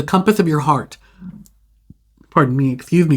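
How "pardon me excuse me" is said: talking through a burp; burping the words. Real, not acted. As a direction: excuse me said mid-burp. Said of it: "confirmation burp".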